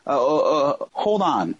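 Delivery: a touch of retold shock, stammered; mock dazed stammer, as if the news just landed; lightly replayed disbelief on the phone; stunned. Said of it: "like I was in this weird state of shock".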